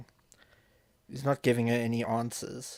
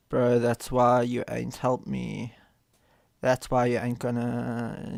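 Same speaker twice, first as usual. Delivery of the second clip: heated reading; 4 dB louder, slower than usual. Acted. Streamer voicing the woman's angry texts to chat, heated mock anger. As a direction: read it like you're the one accusing.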